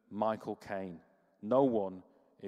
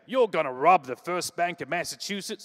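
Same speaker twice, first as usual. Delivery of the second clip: mock Boston accent; 7 semitones higher, 9 dB louder than usual. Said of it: "Sorry for the accent".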